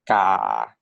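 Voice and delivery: "ka" said steady and level; "ka" with an even level Thai tone; Thai tone one. Shown as a demonstration. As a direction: hold "ka" flat in first tone. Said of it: "this now is pronounced as".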